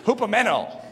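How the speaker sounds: Hupomeno, lean hard on men; stress on men. Shown as a demonstration. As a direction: Hupomeno with a clear push on men. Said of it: "sticking my emphases in now".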